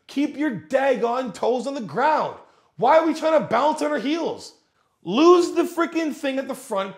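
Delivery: exasperated coach scolding; frustrated rant. Real, not acted. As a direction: vent at bad gym form. Ranting at gym-goers' form.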